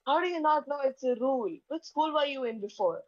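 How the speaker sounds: mock-enraged interrogation of a newcomer; enraged teacher. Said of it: "she's very enraged first thing in the morning".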